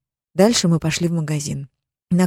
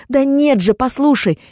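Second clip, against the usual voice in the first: desperate plea; 8 semitones higher, 4 dB louder than usual. Acted. Wife pleads over his anger.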